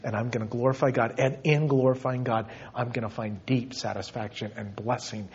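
low, soft voice fading to a whisper; hushed devotion. Real, not acted. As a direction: let the resolve sink gently into breath. Preacher settles into closing devotion.

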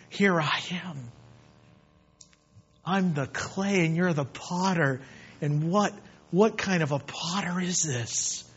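earnest, measured pulpit prayer; heartfelt prayer. Acted. Preacher offering himself to the Lord, heartfelt prayer. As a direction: address God intimately, phrase by phrase.

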